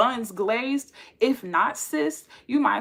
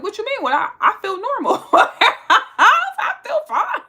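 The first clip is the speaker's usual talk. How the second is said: mock innocent; 13 semitones higher, 7 dB louder, faster than usual. Playing dumb to a crude proposal.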